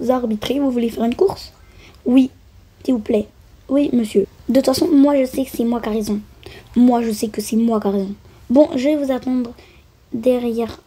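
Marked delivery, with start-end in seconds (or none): 4.5-6.2 stubborn boast. Pretend. Stubborn claim, then repeated.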